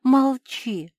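high, loud, pressing plea; urgent warning. Acted. Cinderella warns Mafi against the trick, urgent. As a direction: warn her before it's too late.

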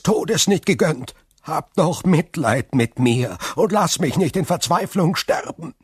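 building from a hushed plea to a loud, high outcry; a prisoner crying out to God in despair, rising; desperate loud prayer. A narrator's reading. Prisoner begs God aloud for mercy, building to a loud despairing cry. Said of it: "Verzweifelt sagte er laut".

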